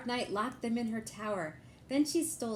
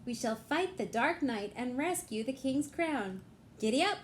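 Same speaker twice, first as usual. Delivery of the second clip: eager knight; 3 semitones higher than usual. Acted. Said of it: "said Elephant Joe".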